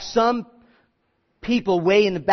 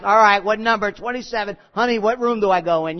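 redneck hillbilly; 2 semitones higher, 4 dB louder than usual. Retold or imitated. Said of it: "Like a redneck hillbilly, he's like".

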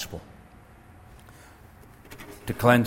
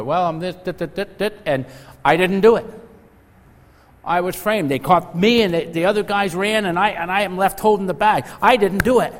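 higher, louder, pleading excuses; whining protest; 8 semitones higher, 6 dB louder than usual. Retold or imitated. Preacher acts prisoner whining to warden he was framed, higher and louder. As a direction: protest you were framed, voice up high.

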